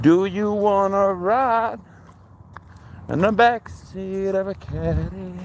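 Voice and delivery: squeaky playful voice to the dog; high silly voice. Pretend. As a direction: pitch it way up, teasing the pup.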